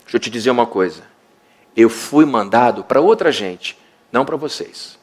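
calm refusal to a pleading mother; dismissive Jesus. Acted. Jesus rebuffing the woman.

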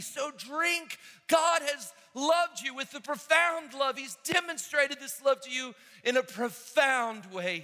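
high, loud, fervent preaching; full-force preaching. Real, not acted.

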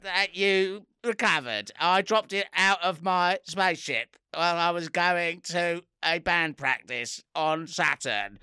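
slow, drawn-out alien voice; lightly voiced space alien. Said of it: "I'm doing the alien voice".

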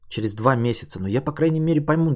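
normal talking voice

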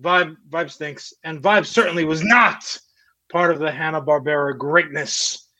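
mock defiance. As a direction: insist with pretend pride. Mock defiant walkout claim.

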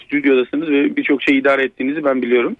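caller's voice down a phone line; over a landline phone. Real, not acted. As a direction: narrow telephone sound. (telefon hattından gelen ses)

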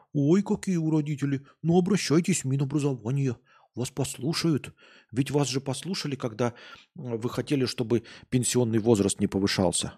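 high sneering mock reply; sarcastic. Mocking government reply to parents. (саркастично)

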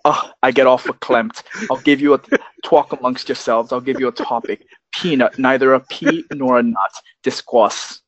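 lightly voiced old New York Jewish woman; a hint of a chatty New York grandma; Linda Frischman. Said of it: "impersonating Mike Myers doing Linda Frischman".

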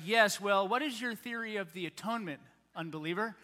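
lightly mocked pious inquisitor; holy voice. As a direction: mimic a holy churchgoer questioning a nonbeliever. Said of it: "holy voice when we do it".

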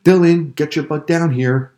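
loud, high call up the stairs; stern father shouting from below; angry dad calling. A narrator's reading. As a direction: yell for the kid to come down now. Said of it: "By the tone of his voice ... his dad was mad".

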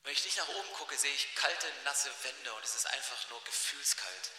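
low, soft, downcast voice; acted dejection. Josef alone in the cold well, dejected. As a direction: sink into quiet hopelessness.

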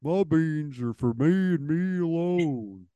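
lightly voiced dopey cartoon dog, drawn out; mock the commercial dog's dim voice; a hint of a slow dopey dog; dumb dog voice. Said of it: "I don't like the voice they give the dog".

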